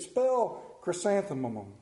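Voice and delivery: slow deliberate "Spell chrysanthemum."; slow punchline. Retold or imitated. Wife at heaven's gate to her husband, slow sly punchline. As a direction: let "chrysanthemum" land slowly as a trap. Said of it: "She said".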